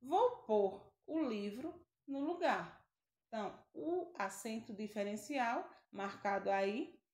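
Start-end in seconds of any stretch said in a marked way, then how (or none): 0.0-2.8 slow, clear example sentence. Shown as a demonstration. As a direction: read it out slowly for students. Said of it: "Vejamos o exemplo". (frase de exemplo lenta e clara)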